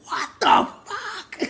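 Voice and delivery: high, slow drawn-out disbelief; stunned, laughing; shocked. Retold or imitated. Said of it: "I was like".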